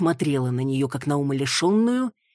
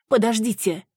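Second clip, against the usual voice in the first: higher, louder plea; pleading; 7 semitones higher, 3 dB louder than usual. Acted. Маруся begging Виола to stop the rite. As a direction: stop them, please.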